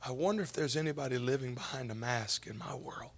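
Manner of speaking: soft whisper; whispered thought. Acted. Preacher whispering the question he asked himself. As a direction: murmur it to yourself.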